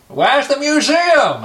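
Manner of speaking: high, slow overpronounced Bane voice. Retold or imitated. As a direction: overpronounce every word like Bane. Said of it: "I had to talk a bit like Bane".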